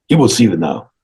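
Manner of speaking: stern secretary's measured announcement, only lightly put on. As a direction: announce it formally, at a normal pitch. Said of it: "it's the secretary guy".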